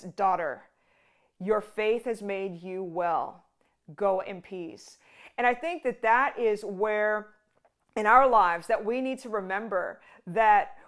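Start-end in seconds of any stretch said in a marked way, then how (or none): 0.0-5.0 lower, soft and slow, like a father to a daughter; tender. Retold or imitated. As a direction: say it gently as a term of endearment. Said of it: "uses a term of endearment".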